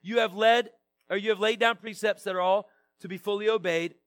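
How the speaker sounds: measured public Bible reading; scripture reading. Real, not acted. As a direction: read the psalm out to a congregation, phrase by phrase. Reads psalm aloud to congregation.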